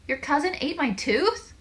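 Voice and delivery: high, loud, slow disbelief; shocked question. A narrator's reading. Squeezy asks Lyle about the eaten tooth, shocked. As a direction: draw the question out and swoop up.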